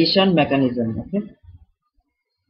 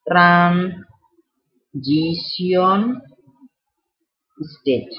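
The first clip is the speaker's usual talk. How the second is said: transition state in a light mock French accent, with a rolled French r; 3 semitones higher, slower than usual. Teacher jokes to students in a mild mock French accent. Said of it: "How was my French accent".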